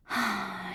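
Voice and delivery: soft contented sigh; happy sigh. A narrator's reading. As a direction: breathe out with happiness. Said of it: "She sighed with happiness".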